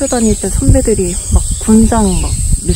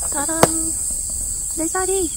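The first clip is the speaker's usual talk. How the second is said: excited; 8 semitones higher, 9 dB quieter than usual. Real, not acted. Proudly showing her camp spot.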